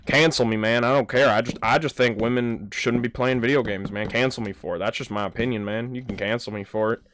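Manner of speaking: lightly voiced defiant gamer dude; imitated Fortnite gamer. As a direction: mimic a guy protesting into game chat. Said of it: "And he's like".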